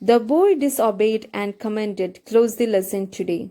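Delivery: reads the English sentence slowly, word by word; slow text reading. Acted. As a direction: read it out slowly for the class. (പതുക്കെ വായിക്കുന്ന പാഠം)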